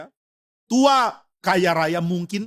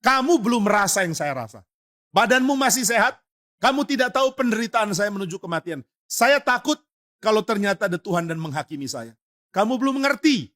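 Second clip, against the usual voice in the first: higher, mock-angry scolding of the son; angry father; 4 semitones higher than usual. Frightened father snaps back at his naive son, mock-angry and higher. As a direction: turn the fear into scolding. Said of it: "Akhirnya papanya marah".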